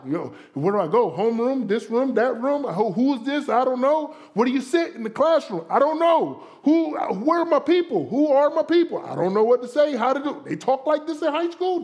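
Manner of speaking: hammed-up bewilderment, questions piling up; overwhelmed newcomer. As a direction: act out a lost, flustered new student. Acts out overwhelmed new high schooler.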